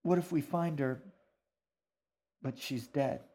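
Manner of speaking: high, worried question sinking on the end; fearful girl. Acted. Girl fears mother is dead.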